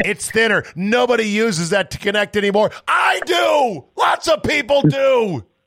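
shrill, very high ranting shout. Mid-rant to the person they're talking to, yelling. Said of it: "Sorry, am I yelling? I'm yelling".

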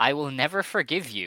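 high wrestling-promo yell. Recapping a wrestling match promo, repeating what a wrestler yelled, retelling a yell. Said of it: "Waka yells".

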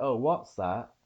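final t of "that" dropped, swallowed. Coaching another speaker on the accent, demonstrating the Oliver Twist accent, dropped T. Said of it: "Don't say the T at the end".

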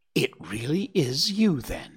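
small, high piping voice, awed, respectfully astonished. Narrator reading a squirrel's line to him, piping with respectful astonishment. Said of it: "he piped with respectful astonishment".

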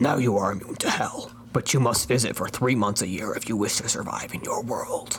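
rough, gravelly whisper. Telling a story, voicing the man who speaks to Squidward: gravelly whispered Batman voice. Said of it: "King of Hell. ... he said in a voice that sounded of the whisper of gravel".

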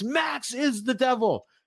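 very high, dragged-out, acted shriek. Retelling a wrestling segment where he screams: imitating someone screaming. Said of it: "And he screams".

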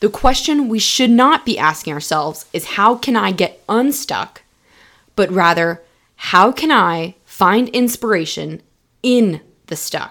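slow, measured, deliberate, emphatic delivery. Repeating a question for the people in the back, saying it louder. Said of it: "Let me say it louder for the people in the back".

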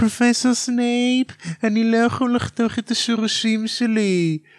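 put-on very high, whiny little-kid voice. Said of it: "ומלפוי מתחיל להתבחן".

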